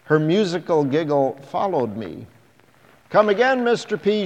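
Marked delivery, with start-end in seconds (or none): 3.1-4.2 put-on high, loud child calling out; calling little girl. A narrator's reading. Little girl calling to a stranger on the beach, high and loud. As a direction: call after him like a bright little girl. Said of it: "she called".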